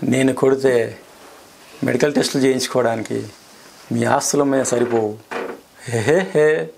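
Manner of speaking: plain-ish delivery with a chuckle at the end; laughing version. Shown as a demonstration. Asked to say it laughing, actor adds a chuckle. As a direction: say it lightly then laugh it off. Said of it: "ఇప్పుడు నవ్వుకుంటూ చెప్పండి".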